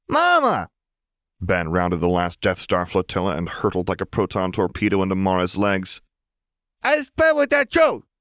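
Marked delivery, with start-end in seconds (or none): 0.1-0.7 put-on very high, loud toddler cry; excited toddler. Toddler runs to mother. 6.8-8.1 put-on very high, loud and slow toddler voice; toddler chatter.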